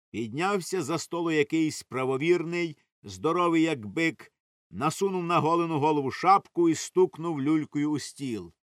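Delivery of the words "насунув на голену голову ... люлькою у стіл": usual speaking voice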